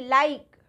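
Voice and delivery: लाइक loud, with the diphthong "ai". Shown as a demonstration. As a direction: punch out लाइक with an "eye" vowel. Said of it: "कैसे आई को pronounce किया".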